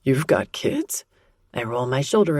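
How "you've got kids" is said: gruff man's voice. A narrator's reading. Gruff male character surprised.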